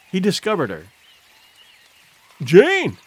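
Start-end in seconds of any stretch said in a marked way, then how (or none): 2.4-3.0 high, loud call of surprise; amazed shout; astonished cry. A narrator's reading. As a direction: cry out on spotting someone unexpected. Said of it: "he cried".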